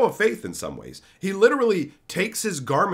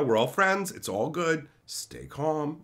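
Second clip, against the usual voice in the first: soothing; 5 dB quieter than usual. Retold or imitated. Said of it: "Be chill".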